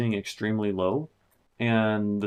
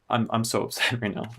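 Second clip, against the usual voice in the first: laughing through the words in disbelief; half-laugh, half-groan at yourself; laughing while upset. Real, not acted. Producer laughing at his own six-year mistake, laughing.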